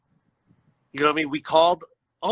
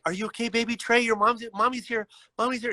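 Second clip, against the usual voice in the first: worried mother; 5 semitones higher than usual. Retold or imitated. Mother soothing her son after seizure.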